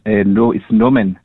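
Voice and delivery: put-on South African accent. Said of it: "in his thick African accent".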